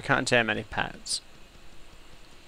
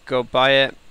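mock advert pitch; 7 dB louder than usual. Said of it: "I should say".

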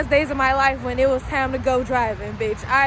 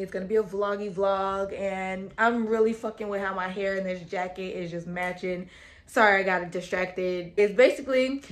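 news reporter voice; 3 semitones lower than usual. Acted. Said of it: "talking like a motherfucking news reporter".

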